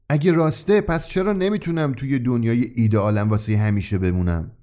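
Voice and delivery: a touch of insolence, first words pushed up; slightly cheeky. Acted. Wayne cheekily challenging the shopkeeper. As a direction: challenge him a little boldly. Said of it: "وین کمی گستاخانه گفت".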